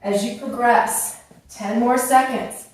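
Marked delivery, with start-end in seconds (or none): 1.5-2.7 out of breath. Real, not acted. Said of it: "I'm getting out of breath".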